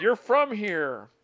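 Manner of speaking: slow, high, drawn-out imitation of Bostonians; mock local voice. Imitating people back home who insist she belongs there. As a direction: drag it out like a nosy local.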